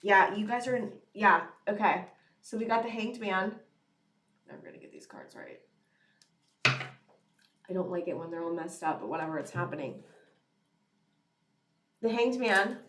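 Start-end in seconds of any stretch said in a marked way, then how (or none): 4.5-10.0 much softer mutter to herself; a soft muttered aside; quiet aside. Real, not acted. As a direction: talk under your breath while sorting cards. Muttering aside while handling cards.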